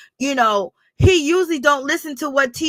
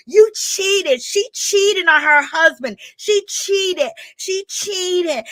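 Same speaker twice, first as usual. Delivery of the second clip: gloating; 6 semitones higher, much slower than usual. Retold or imitated. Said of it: "Tisha was just so relishing".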